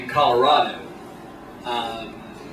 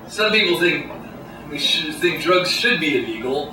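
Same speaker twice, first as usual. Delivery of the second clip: normal talking voice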